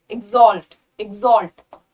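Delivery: exalt said as "ig-ZOLT", falling; crisp model "exalt" with a g-z sound. Shown as a demonstration. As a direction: voice the x in exalt as a buzzing gz. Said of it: "जी और जेड का sound आता है".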